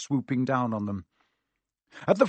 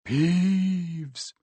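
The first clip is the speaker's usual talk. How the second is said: hoarse whisper; 6 semitones higher than usual. A narrator's reading. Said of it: "in a hoarse whisper".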